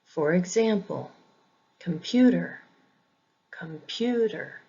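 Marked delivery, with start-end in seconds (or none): 1.8-4.6 "computer" with the weight on PU, com-PU-ter; "computer" pronounced as a demo, weak com, strong PU; second-syllable stress. Shown as a demonstration. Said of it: "not all English words follow this pattern".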